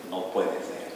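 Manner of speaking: hushed, breathless "No puede ser"; a stunned young man barely voicing it; disbelieving whisper.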